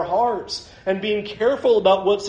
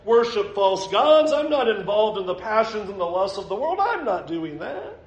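high, self-righteous protest of innocence; mock denial; 4 semitones higher than usual. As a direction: play the sinner insisting he's clean, pitched up. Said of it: "you come to me and go".

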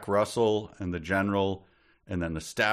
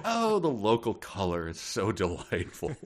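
put-on British tourist, climbing higher; delighted tourists; 7 semitones higher than usual. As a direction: gush like a hammed-up tourist couple. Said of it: "then they will all go".

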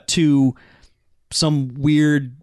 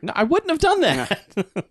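higher, far-off computer voice; mock computer voice; 10 semitones higher than usual. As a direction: play the ship's computer, pitched up. Voicing the ship's computer.

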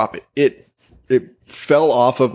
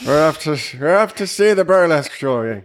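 mock Amish accent, high and singsong; 5 semitones higher than usual. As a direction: lightly put on Amish voice. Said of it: "that's what the Amish sound like".

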